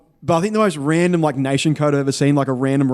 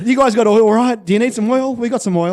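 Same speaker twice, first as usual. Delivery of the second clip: mock oil-rich caller; 6 semitones higher, 4 dB louder than usual. Imagined Qatari caller.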